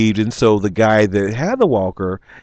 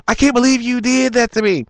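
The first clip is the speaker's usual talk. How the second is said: mock indignant; 11 semitones higher than usual. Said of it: "he wasn't like".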